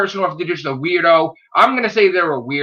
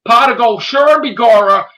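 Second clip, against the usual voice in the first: leprechaun; 5 semitones higher, 6 dB louder than usual. Retold or imitated. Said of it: "go see some fucking leprechauns".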